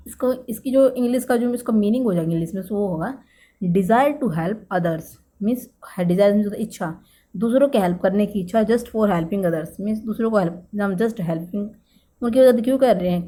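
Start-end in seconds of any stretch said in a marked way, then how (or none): 3.6-5.0 desire to help others spelled out word by word; very slow dictation. Shown as a demonstration. Teacher dictating the English meaning, very slowly. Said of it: "dictating the meaning slowly". 8.6-9.7 desire to help others spelled out word by word; very slow dictation. Shown as a demonstration. Teacher dictating the English meaning, very slowly. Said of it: "dictating the meaning slowly".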